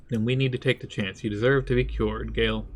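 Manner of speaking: eating crunchy snacks while talking; mouth full. Real, not acted. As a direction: talk through a mouthful of chips. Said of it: "Sorry, very crunchy".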